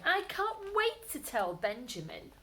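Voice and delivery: high eager bunny voice; bubbling with excitement; excited. Acted. Peter excited about radishes.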